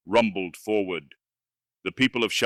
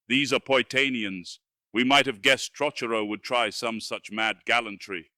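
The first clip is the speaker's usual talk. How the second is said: gruff king's voice, raised; gruff grunt; 3 semitones higher than usual. Acted. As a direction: bark it out like a worried king.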